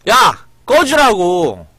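angry yell. Real, not acted. Telling the teasing friend to get lost, slow angry yell. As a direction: drag out the order to leave.

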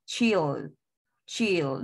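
"Chill" said as one falling syllable; una sola sílaba. Shown as a demonstration. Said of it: "solo se oye una". ("Chill" en una sola sílaba)

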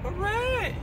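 very high hooray; cheerful hooray. Real, not acted. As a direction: squeal a happy hooray. Mock cheer for Kansas City.

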